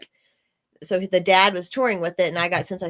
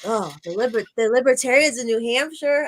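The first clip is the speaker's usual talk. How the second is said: half-hearted attempt at an Australian accent; 4 semitones higher, 3 dB louder than usual. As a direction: quote him in a shaky-attempt Australian accent. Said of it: "I can't do an Australian accent right now".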